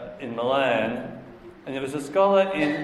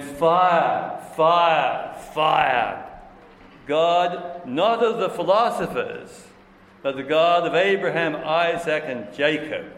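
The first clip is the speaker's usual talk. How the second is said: loud, raised exclamations, each word set apart; impassioned proclamation; 3 semitones higher, 4 dB louder, slower than usual. Retold or imitated. Preacher reciting Pascal's note of his night of fire, loudly proclaiming. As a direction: ring it out like a revelation just received.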